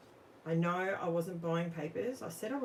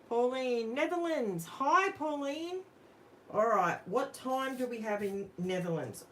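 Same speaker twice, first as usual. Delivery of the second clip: excited greeting; 7 semitones higher, 6 dB louder than usual. Real, not acted. Greeting a viewer from the Netherlands in the live chat, excited and lifted.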